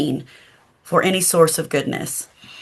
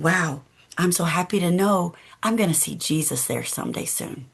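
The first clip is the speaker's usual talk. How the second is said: mild hushed voice drifting to sleep; a drowsy child murmuring happily; soft, sleepy wonder; 5 dB quieter than usual. Acted. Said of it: "Corrie heard her whisper".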